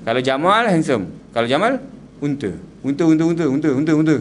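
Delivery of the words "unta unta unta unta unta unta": laughing. Real, not acted. Jokes Jamal means camel.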